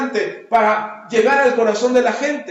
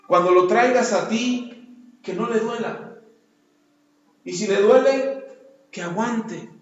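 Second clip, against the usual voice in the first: prayer. Retold or imitated. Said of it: "yo le pido a Dios y digo".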